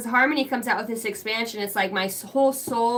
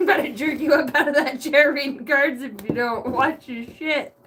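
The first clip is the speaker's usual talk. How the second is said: laughing. Real, not acted. Laughing mock threat.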